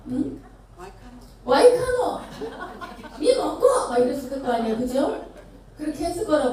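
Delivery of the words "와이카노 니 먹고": much higher, louder Gyeongsang yell with a laugh; furious Gyeongsang dialect. Retold or imitated. Knocked-down official roars at the boy in Gyeongsang dialect, hammed-up fury. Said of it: "경상도 오면서 어떻게 말했을까".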